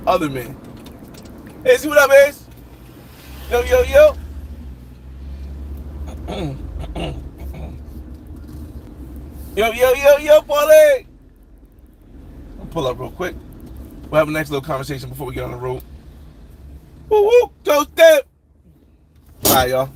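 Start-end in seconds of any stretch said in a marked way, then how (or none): 1.6-11.0 pumped live-stream hellos; hype greetings. Real, not acted. Shouting out to live chatters. 17.1-18.2 much higher, louder, slow whoop; stretched-out excited woo; cheering. Real, not acted. Cheering a chatter's name.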